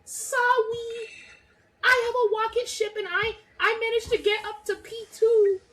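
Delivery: high, laughing mock-sorry voice; hammed-up apologetic racer, laughing; mocking the apology. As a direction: whine a fake apology through laughter. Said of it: "you come over being like".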